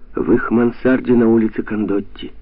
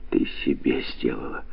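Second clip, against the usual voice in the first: whisper; 7 semitones lower, 7 dB quieter than usual. A narrator's reading. Ghostly voice answers inside her.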